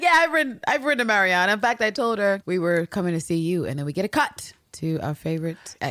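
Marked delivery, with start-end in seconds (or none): 0.0-3.6 high, bright smug reply; smug Anne. Retold or imitated. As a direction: act smug and pleased with yourself. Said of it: "Anne has this smile while she's like".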